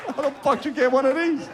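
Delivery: very high incredulous squeal; squealed reaction. Acted. Reacting to friend's Livestrong bracelet, high squealed disbelief.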